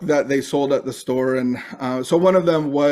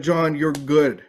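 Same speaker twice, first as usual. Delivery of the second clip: gentle affirmation. Retold or imitated. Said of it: "the voices of earlier in that day".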